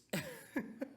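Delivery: sudden high cackle; high laugh. Real, not acted. Vlogger laughing at Dingaling's punch, high cackle.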